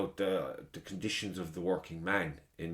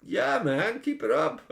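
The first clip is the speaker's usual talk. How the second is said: mock enthusiasm; 13 semitones higher, 6 dB louder, slower than usual. Mock encouragement to Russian guy.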